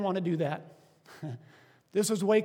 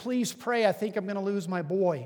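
put-on urgent, desperate, begging, pleading voice. Retelling a dad's voicemail asking for prayer: imitating a pleading voice. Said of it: "the pleading in the voice on my voicemail".

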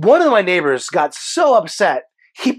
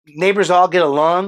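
ordinary talk, nothing marked

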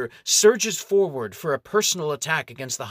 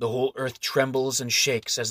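plain reading voice

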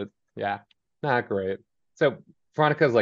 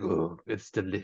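unsettling, creepy voice, soft, hushed and sinister; 7 dB quieter than usual. Describing a creepy character, the speaker imitates him: imitating a creepy man. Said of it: "he's very creepy. He's like".

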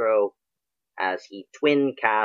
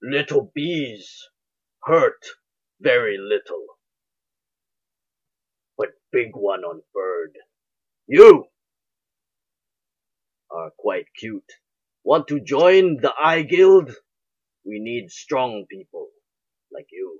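loud, big, hulking giant brute voice; 6 dB louder than usual. Game master voicing a large goliath speaking to the players, large goliath voice. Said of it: "as a large goliath, much like divine speaker. He says this".

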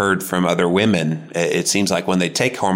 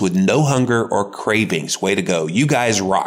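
normal talking voice

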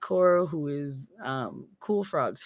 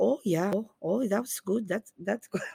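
Minnesotan-sounding put-on accent; 3 semitones higher, 4 dB quieter than usual. Picking up a Minnesotan's way of talking, answering in a put-on Minnesota accent. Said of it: "I wound up sounding like I'm from Minnesota".

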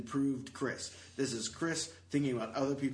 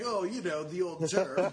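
mock cool, casual, offhand delivery; 5 semitones higher, 4 dB louder than usual. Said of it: "he said it like".

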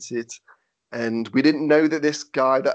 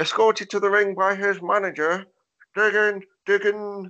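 put-on side-of-mouth speech, much higher pitched; 7 semitones higher than usual. Recalling a strange announcer who couldn't announce the name, imitate talking out the side of the mouth. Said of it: "He literally spoke from the side of his mouth".

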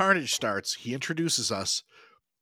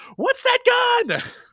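mock shrill, very high, loud yell; 5 dB louder than usual. Recapping a movie scene, re-enacting Maddie's shout on seeing the gun. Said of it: "she shouts".

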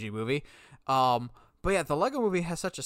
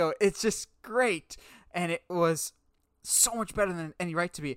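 ordinary talk, nothing marked

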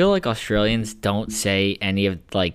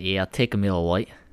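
put-on Australian accent; 3 dB quieter than usual. Speaker shows off a new habit of ordering a beer, in an Australian accent. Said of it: "saying Miller Lite in an Australian accent".

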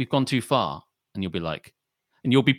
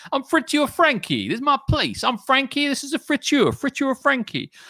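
put-on squeaky, very high Italian-American accent. Imagining the owner of a friture in Ostend, Friture Frankie, Italian-American accent. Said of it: "He Italian-American?".

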